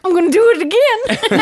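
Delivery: high, cheeky dog voice; a naughty puppy talking. Retold or imitated. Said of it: "Hank is like".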